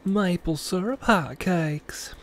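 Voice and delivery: high, slow whispery cartoon clock voice; breathy, sing-song announcer gushing slowly; Miss Minutes. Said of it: "let me do it like Miss Minutes".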